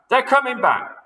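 high, loud panicked alarm with "They're" hit hardest; screaming warning. Acted. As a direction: shriek it again.

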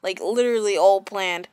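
sarcastic. Real, not acted. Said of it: "this time I'm being serious and not sarcastic".

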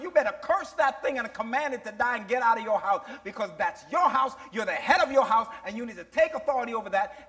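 brisk, driving retold order; God's urgent command. Preacher voicing God ordering a father to take authority, urgently commanding. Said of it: "God said".

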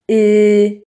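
Polish vowel "y" said alone, clear and held; sound of Y. Shown as a demonstration. Teacher showing a child how "y" sounds. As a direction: model the sound "y" for the child to copy. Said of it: "Literę Y czytamy".

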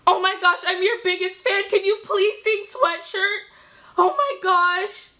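lightly put-on starstruck fangirl; crazy fangirl. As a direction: gush like a pretend superfan. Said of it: "pretending like I'm some crazy fangirl".

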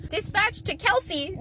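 slow, flat radio call; slow dispatcher voice. Retold or imitated. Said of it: "they radioed me and was like".

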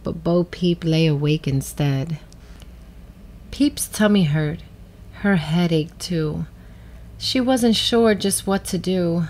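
put-on measured storybook reading for children; gentle read-aloud with clear pauses; story narration. A narrator's reading. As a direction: read it like a picture book, with pauses. Reads a picture book.

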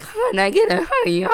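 very high, loud holler; mock falsetto yell; imitated rallying call. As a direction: squeal it out like a silly call. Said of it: "So they do that every day, like".

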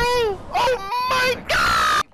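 drawn-out cry. Real, not acted. Gamer cries out in game.

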